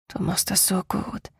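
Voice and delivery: hushed, intimate admiration; soft, half-whispered praise. A narrator's reading. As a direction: whisper it close to a lover. Lover praises partner intimately.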